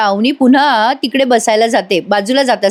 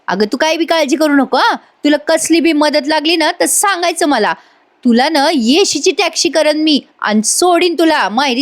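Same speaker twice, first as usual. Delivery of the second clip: higher, coaxing, confiding voice not whispered; aunt murmuring help offers into Avani's ear, pitched higher and coaxing; aunt sweet-talking in her ear; 5 semitones higher than usual. Acted. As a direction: sweet-talk the girl like a scheming aunt. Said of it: "अवनीच्या कानात बोलते".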